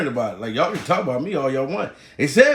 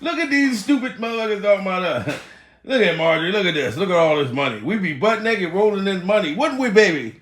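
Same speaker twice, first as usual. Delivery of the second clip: higher, laughing boast to his wife; higher, chuckling show-off teasing his wife; imagined rich husband, laughing; 4 semitones higher than usual. Retold or imitated. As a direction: gloat to the wife while laughing at the internet. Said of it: "I'd be sitting back laughing like".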